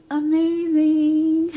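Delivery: high, loud, long-drawn gush; overjoyed, drawn-out exclamation; delighted awe. Real, not acted. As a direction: stretch the word out in a high, delighted sing-out. Recalling joy at seeing heartbeat.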